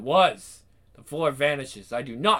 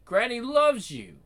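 creepy granny voice; 11 semitones higher than usual. Acted. Granny's sinister refrain.

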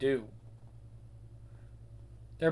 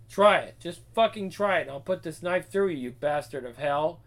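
furious threat. Acted. Wife threatens husband with knife.

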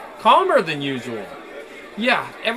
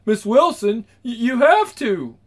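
imitating her boss; 5 semitones higher, 4 dB louder than usual. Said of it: "imitating her boss's voice".

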